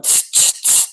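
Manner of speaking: calm the pack with a hush; dog whisperer hush. Retold or imitated. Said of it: "What does he do all the time".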